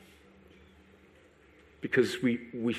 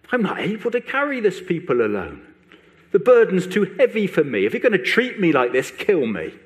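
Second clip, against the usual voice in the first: angry accusation; 2 semitones higher, 4 dB louder than usual. Acted. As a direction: hurl each pronoun at God. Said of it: "emphatic pronouns that he's shooting out at God, staccato fashion".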